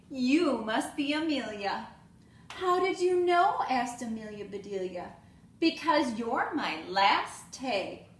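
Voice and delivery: lively storybook read-aloud with voiced characters; reading to children. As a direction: read it like story time for little kids. Teacher reads picture book aloud.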